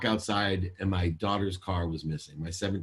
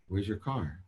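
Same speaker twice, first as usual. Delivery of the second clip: calm and soft; 6 dB quieter than usual. Retold or imitated. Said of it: "And so I call calmly".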